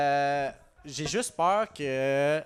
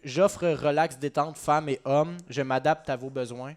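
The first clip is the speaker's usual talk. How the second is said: lecture lente et suave; slower than usual. Retold or imitated. Lit une annonce de massage.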